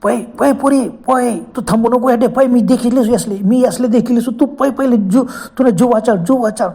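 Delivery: put-on high, slow urgent old man's cry; old man yelling at her to run and save herself; lightly voiced old man shouting a warning. A narrator's reading. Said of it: "तो म्हातारा ओरडला".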